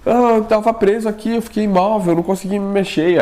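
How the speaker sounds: high, upset retelling; shaken explanation. Retold or imitated. Husband explaining the paralysis to wife, high and upset. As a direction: tell her it happened, still rattled.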